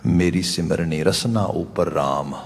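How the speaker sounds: slow, soft recital of ਰਸਨਾ ਉਪਰ ਰਾਮ; a calm scripture quote; quiet verse recital. Shown as a demonstration. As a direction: read the verse gently, ਰਸਨਾ unstressed. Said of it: "ਬਾਬਾ ਕਬੀਰ ਜੀ ਦੇ ਬਚਨ ਨੇ".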